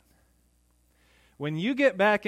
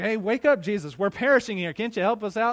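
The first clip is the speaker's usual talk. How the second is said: louder, higher call to a sleeping man; mock urgent wake-up call; 5 semitones higher, 5 dB louder, faster than usual. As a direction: shake him awake in a mock panic. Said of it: "It's like".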